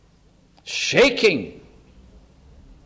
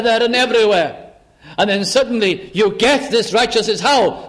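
indignant complaint. Retold or imitated. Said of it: "And they're angry".

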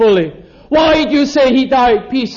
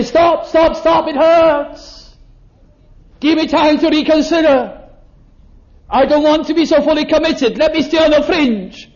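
pleading for mercy; 5 semitones higher than usual. Pretend. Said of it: "He didn't say".

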